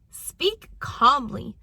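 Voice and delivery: slow, deliberate and measured; calm speech. Shown as a demonstration. Parenting coach advising parents to speak calmly, slow and calm. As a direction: stretch it out calmly. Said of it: "speak calmly and even when".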